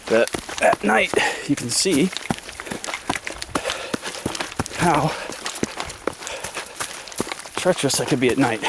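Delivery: breathless words mid-run; talking while jogging on a trail; while running. Real, not acted. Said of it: "I'm gonna run this and show you".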